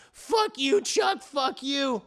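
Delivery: high-pitched cursing, easing at the end; mock angry yelling. Wife curses Chuck on the phone, mock anger. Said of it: "Everyone's yelling at each other".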